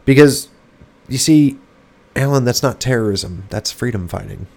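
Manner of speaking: mock explaining, sarcastic. Mocking opponents' view.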